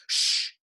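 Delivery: sharp hushing shh; hissed shush. A narrator's reading. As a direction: hiss a quick shush. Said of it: "hissed Professor McGonagall".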